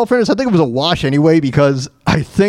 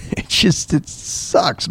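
dejected whisper; 5 dB quieter, much slower than usual. Real, not acted. Dejected aside after laughing.

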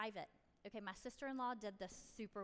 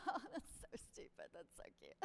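mocking parent; 5 dB quieter than usual. Mocking a parent dismissing teen love.

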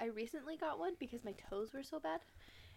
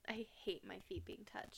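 whisper; 3 semitones lower, 7 dB quieter than usual. Real, not acted. Confessing her fear of feet.

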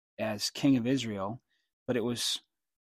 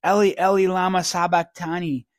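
higher, louder anguished cry; 5 semitones higher, 6 dB louder than usual. Retold or imitated. Preacher voicing Jesus crying out to God, louder and higher. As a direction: cry it out from the cross. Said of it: "Jesus cried out with a loud voice".

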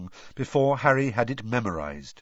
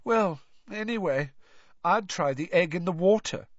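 put-on high, whiny girl ghost; Myrtle's ghost voice; 7 semitones higher than usual. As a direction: pitch up into a mopey schoolgirl ghost.

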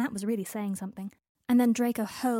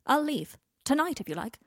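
bitter offer; 6 semitones higher, 6 dB louder than usual. Acted. Draco bitterly offering to leave.

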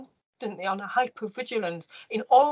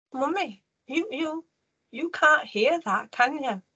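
lightly voiced child, higher pitch; retold young son; 5 semitones higher, slower than usual. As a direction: imitate a little boy's hesitant question, pitched up. Retold young son questioning his mother.

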